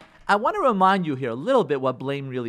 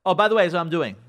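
loud, curt announcement; nasty; 7 dB louder, faster than usual. Acted. Wife announcing her plan to husband, nasty. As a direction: throw it at him as a done deal. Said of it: "she was nasty to you".

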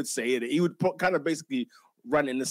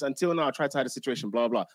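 rushed paraphrase; 3 semitones lower, faster than usual. Retold or imitated. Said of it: "And I'm not saying this".

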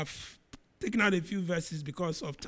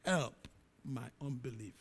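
tearful plea; 5 semitones lower, slower than usual. Acted. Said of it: "He cried, said".

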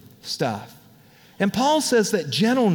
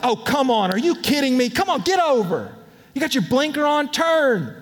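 annoyed driver; 4 semitones higher than usual. Retold or imitated. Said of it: "and I was like".

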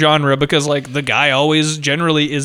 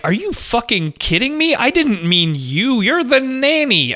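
raised pitch, drawn-out disbelief; mock incredulity; 5 semitones higher, slower than usual. Husband turning down the nanny, incredulous. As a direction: stretch it out as if appalled by the suggestion.

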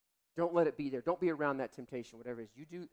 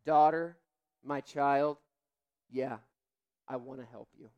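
gentle voice of God. Retold or imitated. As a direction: speak as a loving father to his child. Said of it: "I think he'll say to you".

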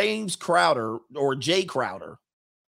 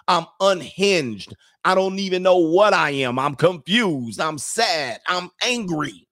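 higher, slow hammed-up distress; mock unhinged; 5 semitones higher, 3 dB louder, slower than usual. Imitating an emotional arguer, hammed-up distress. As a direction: overact the breakdown. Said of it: "describe how they're unhinged".

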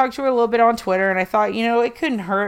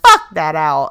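defiant; 3 semitones lower, 6 dB louder than usual. Retold or imitated. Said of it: "I'm telling them".

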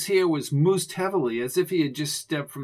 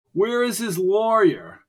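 demanding shout; 6 semitones higher, 6 dB louder than usual. A narrator's reading. Chance demanding loudly.

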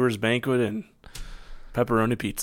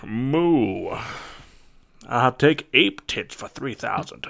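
sketch game-show Connery; much slower than usual. Acted. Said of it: "yes, Celebrity Jeopardy".

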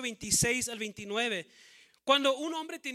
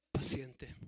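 whispered; 10 semitones lower, 6 dB quieter than usual. Shown as a demonstration. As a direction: whisper paciente softly, no voice. Repeats the verse word whispered. (paciente susurrado sin voz)

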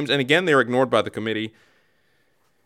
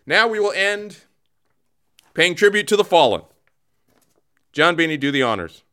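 raised, formal announcer delivery; ceremonial announcement; 5 semitones higher than usual. Pretend. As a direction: proclaim it as a mock tribute ceremony. Solemn ceremonial announcement of the fallen.

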